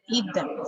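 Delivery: "them" given its full strong form. Shown as a demonstration. Teacher modelling strong "them". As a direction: pronounce "them" fully. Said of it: "Here it is strong".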